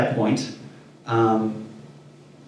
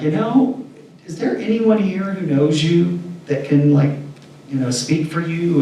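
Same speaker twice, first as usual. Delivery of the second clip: higher-pitched, tentative polite request; polite caution; 5 semitones higher than usual. Retold or imitated. Asking a stranger for someone to vouch, polite caution. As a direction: ask carefully, pitch lifted, as retold dialogue.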